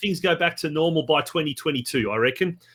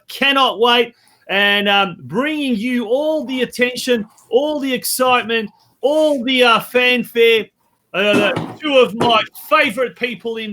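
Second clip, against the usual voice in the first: show-opening announcer. Real, not acted. Host welcoming viewers to quiz night, show-opening announcer. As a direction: roll out a big welcome to the show.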